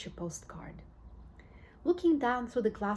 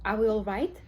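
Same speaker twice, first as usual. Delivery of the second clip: anxious cry; 6 dB louder than usual. Acted. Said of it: "cried Grandpa Joe".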